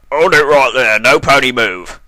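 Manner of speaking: barked order. A narrator's reading. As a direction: stop everyone like a cop. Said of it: "the officer barked".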